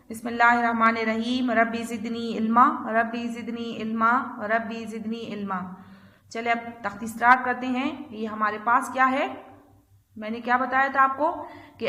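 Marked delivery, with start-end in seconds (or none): 0.1-5.6 recited prayer. Shown as a demonstration. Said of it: "तो बिस्मिल्लाह पढ़े।".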